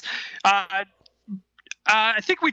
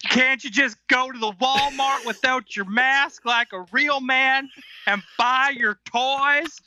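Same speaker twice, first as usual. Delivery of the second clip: mock Southern rant; 4 semitones higher than usual. Co-host joins the Southern rant.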